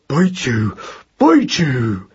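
put-on squeezed, muttered baby mouse threat; small strangled voice. A narrator's reading. Trampled baby mouse still threatens, small and strangled. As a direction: mutter defiance through a strangled throat. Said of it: "in a small, strangled voice".

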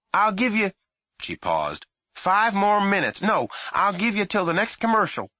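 loud high call, paused; mother doling out minutes; bargaining mother. A narrator's reading. Mother bargaining with her son, calling up.

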